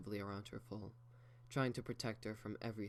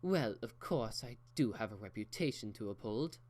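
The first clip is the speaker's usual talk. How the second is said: ゆっくり気取った口調; 鼻高々に、ゆっくりもったいぶって; haughty; 3 dB louder than usual. Acted. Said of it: "raised her nose in the air".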